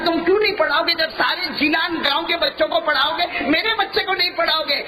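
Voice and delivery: mother indignantly questioning the teacher. Acted. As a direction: demand to know why he won't teach her son.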